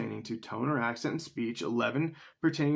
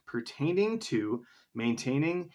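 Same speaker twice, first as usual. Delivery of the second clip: slower, puzzled reread of pertaining to maintaining; slower than usual. Shown as a demonstration. Rereading a crossword clue to herself, slower. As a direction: spell out "Pertaining to maintaining" slowly, word by word.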